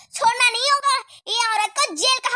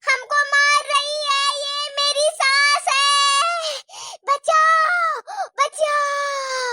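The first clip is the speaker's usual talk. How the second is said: crying for help; much slower than usual. Acted.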